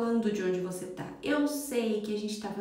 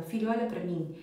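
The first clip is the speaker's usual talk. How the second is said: put-on soft, low, calm words to a child; calm gentle request; 4 semitones lower, 4 dB quieter than usual. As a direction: speak gently face to face with the kid. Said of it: "olhe no olho dela". (mãe falando baixinho e calma com o filho)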